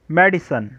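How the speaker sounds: मेडिसिन with the c said as s, "medisin"; soft c as s. Shown as a demonstration. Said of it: "मेडिसिन में सी के बाद आया आया है तो सी ने खाफ की बजाय सीन की आवाज़".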